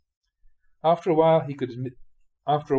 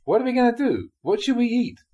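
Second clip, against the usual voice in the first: wife's whiny, higher complaint; mock the nagging wife, pitched up; lightly voiced wife complaining, higher; 12 semitones higher, 5 dB louder than usual. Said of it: "his wife was complaining".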